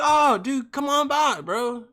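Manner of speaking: lightly voiced friendly dealer; chill bro voice. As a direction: toss it off like a laid-back buddy. Friend texting back, voiced.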